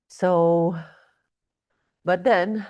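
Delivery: breathless, gasping between words; out of breath. Real, not acted. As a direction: talk while short of breath. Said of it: "sorry, I'm breathless".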